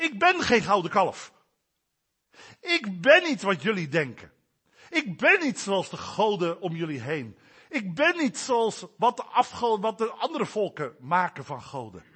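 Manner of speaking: loud declaring voice of God. Acted. Preacher voicing God to the people, loud. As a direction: proclaim it as God, loud and sure.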